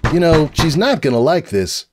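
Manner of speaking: uneasy little dragon voice; Spike voice. Acted. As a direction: drag out the doubt.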